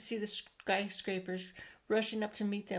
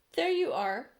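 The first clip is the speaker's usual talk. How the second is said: triumphant cry; 5 semitones higher, 6 dB louder than usual. A narrator's reading. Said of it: "cried the chief of police".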